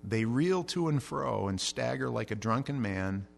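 slow, measured reading of the psalm; scripture reading. Acted. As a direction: read the verses solemnly.

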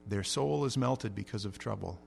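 slow, measured reading of the psalm; scripture reading. Acted. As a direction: read the verses solemnly.

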